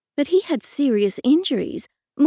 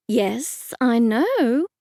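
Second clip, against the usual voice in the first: words squeezed through clenched teeth; through gritted teeth; much slower than usual. Acted. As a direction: hold back irritation through clenched jaw. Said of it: "I said through gritted teeth".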